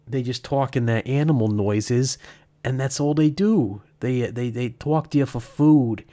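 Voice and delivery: put-on slipping into a Boston accent. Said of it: "I'm doing the stupid Boston accent again".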